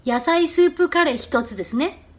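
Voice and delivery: slow order read-back with ね tipped up; confirming ね. Shown as a demonstration. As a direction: end ですね on a short rise. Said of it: "끝을 짧게 위로 살짝 올리세요".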